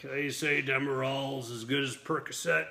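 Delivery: lightly voiced dazed rambler; a hint of drugged, lost musing; Burt Reynolds woozy. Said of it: "kinda lost".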